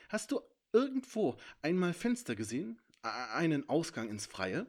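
curious dragon. A narrator's reading. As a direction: probe for a way out.

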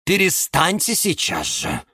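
high-pitched scolding plea; high, fussy reprimand; alarmed peacemaker. A narrator's reading. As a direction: break up the quarrel. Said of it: "бросилась разнимать их Розалия Львовна".

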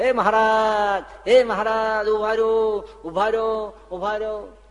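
high, loud call after a departing rider. Acted. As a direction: shout after him to stop, pitched high and loud. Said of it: "બૂમો પાડે". (દૂરથી ઊંચા અવાજે બૂમ પાડતી)

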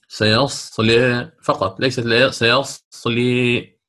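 "سيصلي" drawn out with its ending leaning too far; imitating a reader who over-tilts the vowel; demonstrating the wrong reading; mistaken taqlil. Shown as a demonstration. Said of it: "ويقول هذا تقليل".

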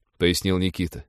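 plain reading voice

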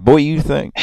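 hammed-up drawled boy; mock teacher. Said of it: "he said".

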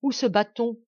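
pressing question to the newcomer; eager question. Acted. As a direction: ask sharply, keen to know. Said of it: "demandant vivement Lacheneur".

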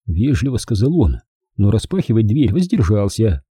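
ordinary delivery, nothing marked

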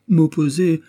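high, loud shocked echo; aghast. A narrator's reading. Tailor horrified by the bishop's word, aghast. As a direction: recoil at the word.

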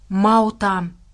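understated breath of despair; despairing exhalation. A narrator's reading. Nell looking at the city, exhaling in despair. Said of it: "выдохнула Нелл в отчаянии".

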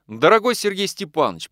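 a touch of tremble in the address; trembling voice. A narrator's reading. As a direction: voice catching with emotion. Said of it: "проговорил он дрожащим голосом". (слегка дрожащим голосом)

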